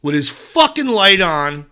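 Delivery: mock outraged inner rant from the old lady; the old lady next to him, loud and slow mock fury; fuming old lady. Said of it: "in her head, she's going".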